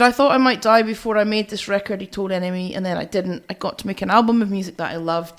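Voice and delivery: normal talking voice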